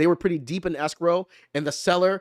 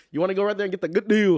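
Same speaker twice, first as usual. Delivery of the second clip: quick, put-on Asian accent; faster than usual. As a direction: rattle it off in a mock Asian accent. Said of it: "That's my little Asian accent".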